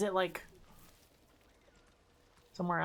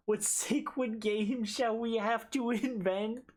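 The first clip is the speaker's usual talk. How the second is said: put-on cutesy baby talk. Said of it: "Uwu voice?".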